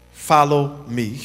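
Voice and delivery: low, slow, tender voice of Jesus; gentle call. Acted. Jesus calling each disciple, low and gentle. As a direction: invite softly. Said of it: "Jesus says it".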